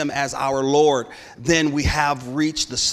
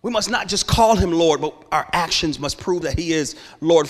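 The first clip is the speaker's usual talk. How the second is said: louder repeat; 3 semitones higher than usual. Shown as a demonstration. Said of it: "repeated louder".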